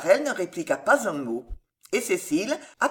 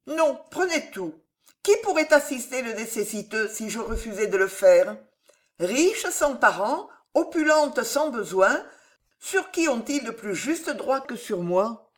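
higher, lightly voiced generous heroine; lightly acted earnest insistence, higher; insistent young heroine; 4 semitones higher than usual. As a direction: plead gently to be allowed to give.

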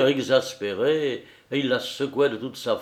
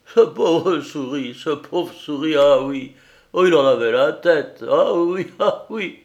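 higher and louder, laughing through the words; shaking with laughter; 4 semitones higher, 6 dB louder than usual. A narrator's reading. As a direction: splutter with glee, laughter breaking in. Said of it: "Il balbutiait, tout secoué par sa joie".

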